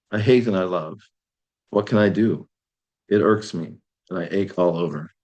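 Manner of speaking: short lines set apart by pauses; poem reading. Acted. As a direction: recite it line by line as verse. Reads translated poem aloud.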